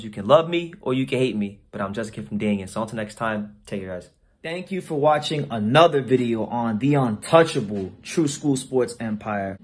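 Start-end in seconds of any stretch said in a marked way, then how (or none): 2.7-9.6 slow, measured announcer read; deliberate outro voiceover; channel outro read. Real, not acted. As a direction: sign off slowly, word by word.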